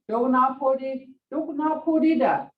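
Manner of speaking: high, firm command repeated. Shown as a demonstration. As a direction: bark the order up high. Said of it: "Hear that tone?".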